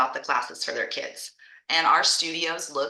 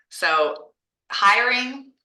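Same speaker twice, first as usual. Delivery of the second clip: talking while chewing a cough drop; words around a lozenge; slower than usual. Real, not acted. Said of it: "sorry, I'm chewing on my cough drop".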